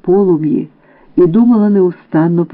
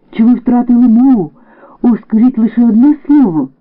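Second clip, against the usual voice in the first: pleading; 6 semitones higher than usual. Acted. Pleading lover in story.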